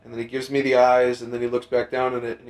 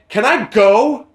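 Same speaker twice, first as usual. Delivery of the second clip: retold snap; 7 semitones higher, 7 dB louder, slower than usual. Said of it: "I, I go".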